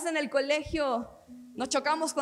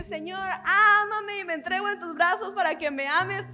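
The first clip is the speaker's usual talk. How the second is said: higher, louder cry to God; impassioned prayer, raised voice; fervent plea; 4 semitones higher, 5 dB louder than usual. Acted. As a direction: plead upward, stretching the opening word. Acted cry to God in sermon.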